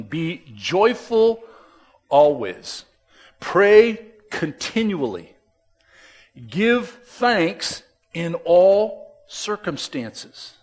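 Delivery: slow, weighty scripture reading. Acted. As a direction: read each phrase like a proclamation. Reads scripture aloud.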